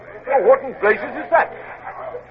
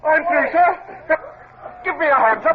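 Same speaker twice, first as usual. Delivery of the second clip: shouted over the noise of battle; triumphant shout; 4 semitones higher than usual. Acted. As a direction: call out that you've broken through. Breaking through netting in battle.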